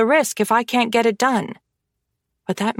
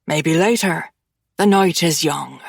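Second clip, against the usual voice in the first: teasing low captor; 4 semitones lower than usual. Acted. Killian teasing his captive, lightly lowered smug menace. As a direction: let it hang like a promise.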